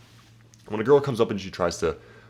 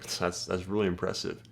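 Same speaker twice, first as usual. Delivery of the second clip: softer, unimpressed mock praise; dry brush-off; 2 semitones lower, 5 dB quieter than usual. Shown as a demonstration. Guy addressing Kim Kardashian, dry and unimpressed. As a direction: calmly shrug off a celebrity. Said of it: "I'll pull that line out".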